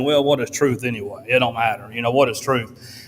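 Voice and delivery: mildly imitating a dismissive smart aleck. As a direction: toss it off like it hardly matters. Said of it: "in a smart aleck sort of tone".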